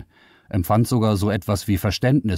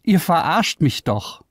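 higher, raised accusing voice; getting louder; 11 semitones higher than usual. Acted. Liara accuses the men of a prank, raised voice. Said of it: "Ihre Stimme wurde lauter".

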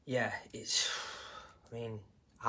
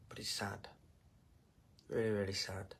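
holding back tears; 3 semitones lower, 11 dB quieter than usual. Real, not acted. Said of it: "I don't wanna cry".

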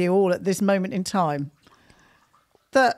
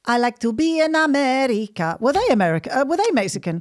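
put-on Italian accent. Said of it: "I still sound Italian".

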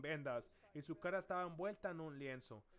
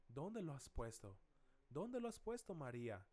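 softly asked with tender compassion; tearful compassion; 5 semitones lower, 4 dB quieter than usual. Retold or imitated. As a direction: ask it gently, without scolding, voice sinking low. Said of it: "con gran compasión les dice".

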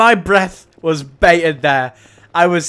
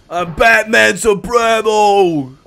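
mock Batman. Batman impression joke.

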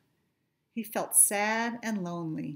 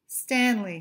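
louder happy cheer of a name; 3 semitones higher, 6 dB louder than usual. Acted. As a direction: greet him with joy. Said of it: "his friends cheered".

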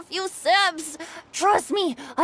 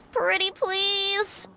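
pleading; 4 semitones higher, slower than usual. Acted. Begging for stronger drinks.

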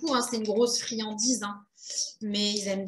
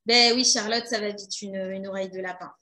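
polished hotline phone voice; customer service voice; 3 semitones lower than usual. Acted. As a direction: answer like a call-centre agent. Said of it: "je la fais bien, la voix de Hotline". (voix de hotline)

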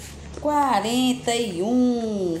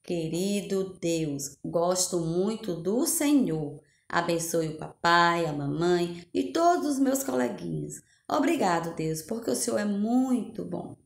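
simple prayer; 3 semitones lower than usual. Acted. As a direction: pray gently, like a child's prayer. Opening prayer before class.

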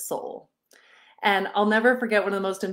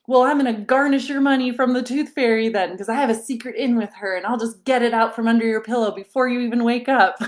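mock threat; 4 semitones higher, 6 dB louder, faster than usual. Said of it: "I'm like".

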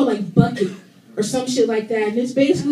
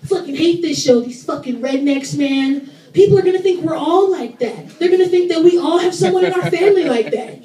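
imitating an indignant complaint, rising in pitch; mock outrage that builds as it goes; imitated annoyance; 4 semitones higher, 3 dB louder than usual. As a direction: gripe like a fed-up brother, building higher. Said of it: "he fucking hates it".

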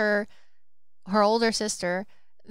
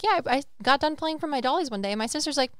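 higher, quick retold exchange; lightly voiced sisters; 5 semitones higher, faster than usual. Voices sisters in retold childhood story.

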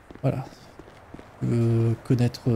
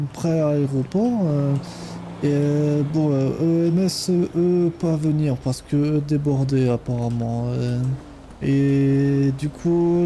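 put-on Ukrainian accent. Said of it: "mon superbe accent ukrainien".

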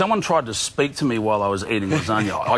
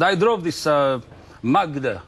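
raised, lightly put-on New Zealand accent; mock Kiwi accent; 5 semitones higher, slower than usual. Imitating the driver asking Shane what's on in Sydney, light Kiwi accent. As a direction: play the chatty Kiwi driver, light and eager. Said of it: "Oh, those crazy Kiwis".

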